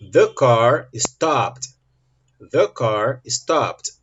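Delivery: very slow, word by word; very slow model sentence. Shown as a demonstration. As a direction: model each word slowly for learners. Teacher models example twice, slowly. (frase-modelo bem lenta, palavra por palavra)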